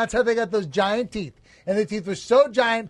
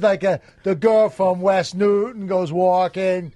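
put-on Boston accent; 2 semitones lower, slower than usual. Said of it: "his Boston accent".

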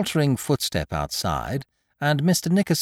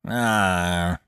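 guarded; 6 semitones lower than usual. A narrator's reading.

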